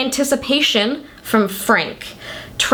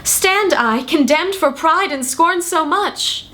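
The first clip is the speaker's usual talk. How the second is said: raised-pitch, drawn-out dramatic recital; theatrical monologue; 5 semitones higher than usual. Acted. Show host opens with a Shakespearean speech, theatrical recital. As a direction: lightly declaim it like a stage soliloquy.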